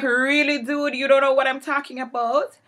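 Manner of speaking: high, loud disbelieving snap; loud "really, dude?" outrage; incredulous retort. Retold or imitated. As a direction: throw his denial back at him. Incredulous retort to his denial.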